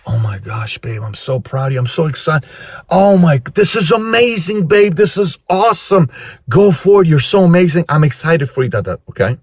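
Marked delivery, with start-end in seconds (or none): 0.1-2.5 softly delivered, tender praise; proud husband. Acted. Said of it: "her husband says". 2.9-8.7 high-pitched, thrilled encouragement; cheering husband. Acted. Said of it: "her husband says".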